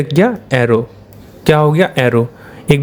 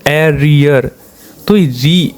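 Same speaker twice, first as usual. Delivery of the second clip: slow sounding out; much slower than usual. Shown as a demonstration. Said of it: "ई का sound".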